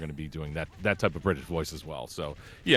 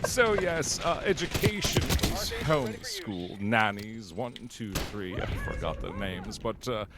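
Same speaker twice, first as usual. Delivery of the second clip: smug, arrogant British pontificator; Nigel Knife; 3 semitones higher than usual. Acted. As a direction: lecture with pompous British self-satisfaction, pitch often lifted. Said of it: "the most smug and just arrogant".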